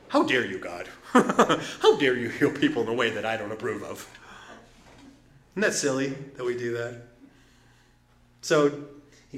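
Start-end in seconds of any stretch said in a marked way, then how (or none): 0.1-4.1 laughing, hammed-up outrage at God; mock indignation. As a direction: scoff like a prim offended churchgoer. Mocking an indignant religious person.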